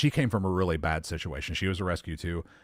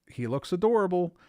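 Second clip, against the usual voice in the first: pitched way up, gushing over the dog; 11 semitones higher than usual. Retold or imitated. Meeting the timid shelter dog, gushing how adorable he is. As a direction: coo like you've just fallen for him.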